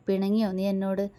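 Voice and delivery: gentle, softly asked question; tender lover's question. Acted. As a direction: coax her softly, lovingly. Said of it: "ആർദ്രമായ ശബ്ദത്തിൽ".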